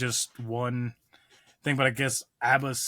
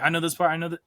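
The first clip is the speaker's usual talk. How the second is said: eager; 5 semitones higher, 4 dB louder, faster than usual. Pretend. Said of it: "start singing and be like".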